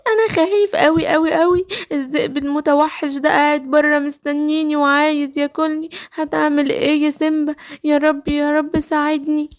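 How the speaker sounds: acted whimpering plea; mildly tearful cry for help; tearful frightened cub. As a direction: play a scared little lion close to tears. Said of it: "مالك يا سيمبا بتعيط ليه".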